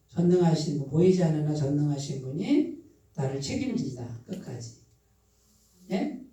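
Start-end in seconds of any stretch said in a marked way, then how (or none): 0.1-4.8 meditative demo. Shown as a demonstration. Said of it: "이렇게 묵상".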